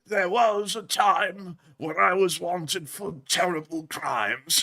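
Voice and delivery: lightly voiced, slow confession as the animal; a hint of an old outlaw telling his past; slow, mildly mock-grave storyteller voice; shady animal voice. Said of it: "this thing comes out and it goes".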